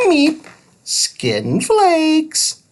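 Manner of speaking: high beeping robot voice, broken grammar; robot Thud. A narrator's reading. Little robot explaining follicles, high beep first. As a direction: beep then explain simply.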